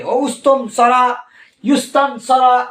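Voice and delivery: উস্তুনসরা and ইউস্তানসরা said with a instead of i; mock the mixed-up vowels; wrong vowels. Shown as a demonstration. Teacher showing students' jumbled reading, mild. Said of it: "এরকম উল্টাপাল্টা পড়ে".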